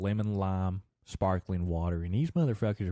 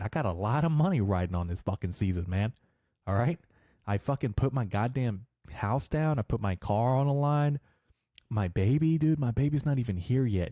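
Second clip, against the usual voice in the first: heated rant; 3 semitones higher than usual. Real, not acted. Half-joking threat, money on season.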